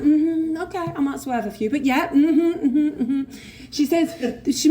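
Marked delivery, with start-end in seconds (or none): 0.0-3.2 airy, higher mm-hmms, brushing it off; breezy mock agreement. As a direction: humour her with light mm-hmms. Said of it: "She tells me about the twelve steps and I'm like".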